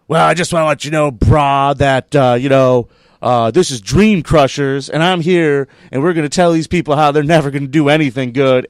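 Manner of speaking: mocking the radio host. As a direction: play the brash radio host tearing into the guest. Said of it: "just coming at me hard".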